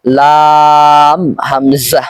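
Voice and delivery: লাম, হামজা drawn out slowly; stretched reading. Shown as a demonstration. Teacher showing students the right way. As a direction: hold the vowel in লাম, হামজা long. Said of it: "বরং বলতে হবে".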